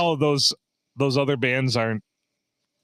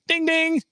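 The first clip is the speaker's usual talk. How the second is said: imitated door chime; 13 semitones higher than usual. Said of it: "when I opened the door, like".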